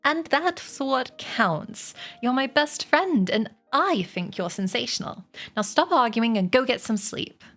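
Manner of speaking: fond storybook Charlotte; sweet. Acted. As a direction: reassure a dear friend, then gently send them to bed. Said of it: "replied Charlotte sweetly".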